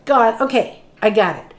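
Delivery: mock-eager, dry sarcasm; sarcastic to God. A woman needling God about the flyer, sarcastic. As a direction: lay on the sarcasm as if it's absurd. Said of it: "I was, like, being sarcastic".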